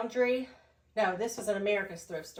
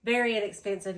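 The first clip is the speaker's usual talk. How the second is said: out of breath; faster than usual. Real, not acted. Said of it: "I'm sorry if I'm getting out of breath".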